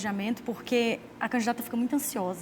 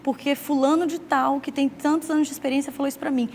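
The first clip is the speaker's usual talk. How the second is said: higher, louder, rushed imitation of panic; mock frantic candidate; 4 semitones higher, 5 dB louder than usual. Candidate panicking over someone's campaign advice, mock frantic. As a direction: imitate a candidate losing her head. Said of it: "a candidata fica louca, fala".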